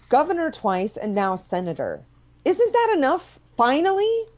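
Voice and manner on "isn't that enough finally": much higher and louder, pleading; exasperated plea. Acted. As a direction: beg him to finally stop. Daughter pleading with father, exasperated.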